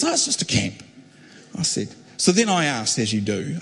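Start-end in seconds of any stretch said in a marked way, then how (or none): 0.0-0.8 Brendan being coy. Retold or imitated. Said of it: "And he goes".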